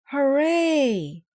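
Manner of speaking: high, loud hooray; cheer. A narrator's reading. Team cheering the challenge, a loud high hooray. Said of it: "cheered the Mighty Mites".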